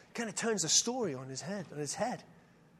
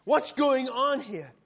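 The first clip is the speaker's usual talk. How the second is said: quick, indignant burst of questions; woman blurting out her surprise at Jesus; blurted out; 4 semitones higher, 4 dB louder than usual. Acted. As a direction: blurt it out in disbelief. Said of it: "She blurts out".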